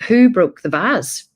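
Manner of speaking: a dad holding up a broken vase; stern dad. Retold or imitated. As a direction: loom over the kids with it. Dad confronting the children.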